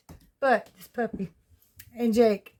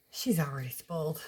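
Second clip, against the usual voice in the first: hushed whispered aside; whispering; 6 semitones lower, 6 dB quieter than usual. Real, not acted. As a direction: whisper it softly. Whispered aside about puppy.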